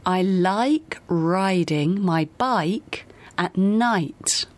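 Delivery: very slow, stretched I in LIKE, RIDING, BIKE, NIGHT; long I practice. Shown as a demonstration. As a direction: draw out each glide in BIKE and NIGHT. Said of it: "这个练习可以让你读好I这个音".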